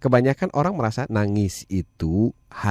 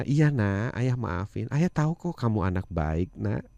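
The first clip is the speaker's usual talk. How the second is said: gentle forgiveness; 2 semitones lower, 4 dB quieter than usual. Retold or imitated. Father forgiving his apologizing child, gently. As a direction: reassure a child, voice easing down softly.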